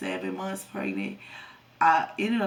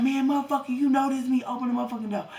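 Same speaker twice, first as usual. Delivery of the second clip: loud, higher retold demand; mock yell; 7 semitones higher, 4 dB louder, faster than usual. Boyfriend yelling at her to open the door, mock loud. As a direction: bark it like he's banging on the door.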